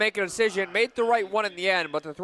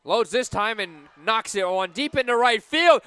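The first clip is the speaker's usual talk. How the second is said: louder, rising call as the ball carries; excited call; 5 semitones higher, 5 dB louder than usual. Real, not acted. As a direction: build toward the home run. Live call of a deep drive.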